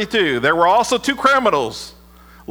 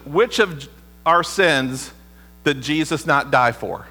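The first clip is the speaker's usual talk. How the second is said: drawn out slowly, each word weighed; slow question; 5 semitones lower, slower than usual. Shown as a demonstration. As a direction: ask it slowly and let it land. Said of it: "let me ask you this question".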